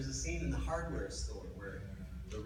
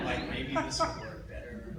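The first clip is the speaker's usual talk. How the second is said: high, giggling delivery; words squeezed out through real laughter; laughing at his own ad-lib; 4 dB louder, slower than usual. Real, not acted. Laughing while retelling ad-lib.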